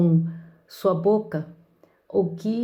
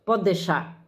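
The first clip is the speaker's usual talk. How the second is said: irritated and fed up; slower than usual. Retold or imitated. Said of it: "Já com cara feia".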